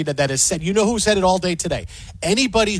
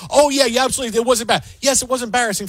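mock agreement; 4 semitones higher, much faster than usual. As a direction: ham up the eager agreement. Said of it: "who says".

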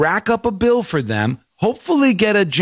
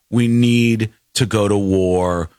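mock war cry; 5 semitones lower than usual. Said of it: "I go".

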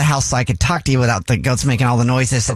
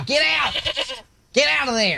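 high-pitched shout at the goats; 11 semitones higher, 5 dB quieter than usual. Acted. Prank caller yells at goats off the phone, high shout. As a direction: order the goats out sharply.

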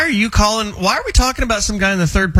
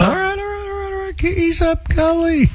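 mock pleading; 13 semitones higher than usual. Host cuts off caller's sob story.

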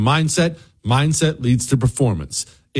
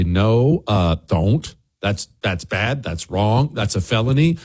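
lower, firm no; a hint of a calm voice of reason; lightly voiced sensible friend; 5 semitones lower than usual. Host voicing the normal person saying no, lower and firm. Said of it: "there's nobody to step up and say".

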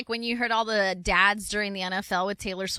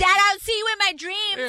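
teasing daughter; 8 semitones higher than usual. Retold or imitated. Voicing the daughter's retort.

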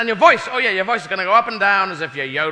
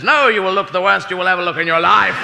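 louder, mock decree; Mother Nature booming; 6 dB louder than usual. Mother Nature mocking a teenager, louder. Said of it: "Mother Nature says".

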